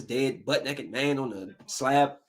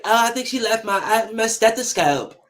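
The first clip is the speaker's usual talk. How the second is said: a light mock of a timid, soft-spoken husband, slightly higher; soft weak voice; 5 semitones higher than usual. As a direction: imitate him mumbling softly with no bass in the voice. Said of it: "Why are you talking like that?".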